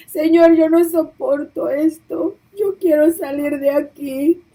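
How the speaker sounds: tearful plea. Retold or imitated. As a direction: beg to get out, voice close to tears. Begging the Lord to leave.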